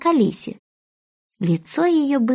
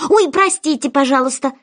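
mild cry; 5 semitones higher than usual. Acted. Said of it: "закричала она снова".

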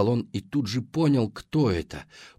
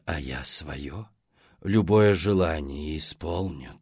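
gurgling sea hag; 3 semitones lower than usual. Acted. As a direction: purr it low like a sea hag. Monster mother voiced.

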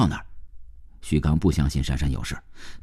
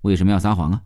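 smiling question; faster than usual. Acted. Man catching woman in a lie, smiling question. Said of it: "旭刚微笑着问道".

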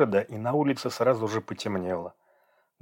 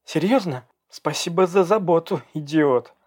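sarcastic anger; 7 semitones higher, 4 dB louder than usual. Acted. Sarcastic angry reply.

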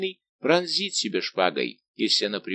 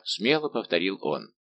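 ordinary delivery, nothing marked

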